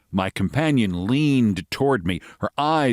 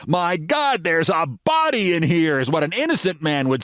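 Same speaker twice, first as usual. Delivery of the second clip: American lady voice; 8 semitones higher than usual. Acted.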